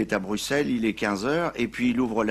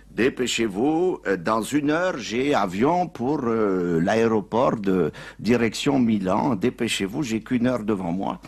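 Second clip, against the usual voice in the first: urgent pope; 2 semitones higher, 5 dB louder, slower than usual. Acted. Pope urging taxi driver.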